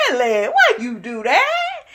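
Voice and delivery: giggling through a mock plea; amused, half-laughing why. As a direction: laugh while pretending to beg him. Mock lament over twelve affairs.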